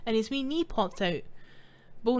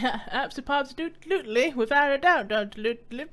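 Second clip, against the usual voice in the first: Futurama chicken lawyer voice. Acted. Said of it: "I was trying to do the chicken guy from Futurama".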